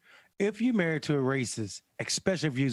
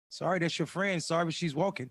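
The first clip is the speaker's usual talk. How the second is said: insincere throwaway sorry; fake apology; 2 semitones higher than usual. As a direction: toss off a sorry he doesn't mean. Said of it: "That's the fakest fucking sorry you ever gonna get".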